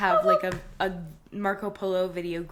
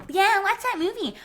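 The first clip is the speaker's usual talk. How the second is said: tag; 10 semitones higher, 4 dB louder than usual. Retold or imitated. Mimicking friends who recommended the film.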